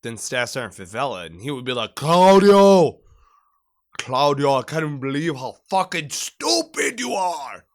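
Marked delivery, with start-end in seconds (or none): 1.9-7.6 shouted mock drill instructor with a Hispanic accent; thick Hispanic accent. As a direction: yell the name, then berate in a heavy Hispanic accent. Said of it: "Claudio had a worse accent".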